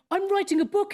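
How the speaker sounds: high-pitched, self-important mock proclamation; mock announcement. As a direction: parody someone grandly announcing their project. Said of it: "announcing you're gonna do something".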